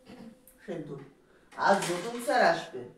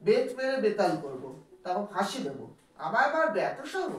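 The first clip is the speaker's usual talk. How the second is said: mildly acted anger, rising at the end; angry pupil. Pupil vows revenge on the caning teacher, mildly angry. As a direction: vow revenge, building to an affronted question. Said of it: "Ganga রেগে গিয়ে বলছে".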